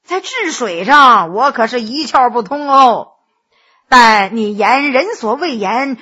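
a hint of a smug flatterer, chuckling; genial scholar Gao. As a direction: Gao Shiqi teasing his friend, lightly voiced. Narrator voices Gao Shiqi.

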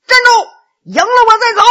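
high, loud challenge; thundering shout. Acted. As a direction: bellow at them to halt. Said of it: "大喝一声".

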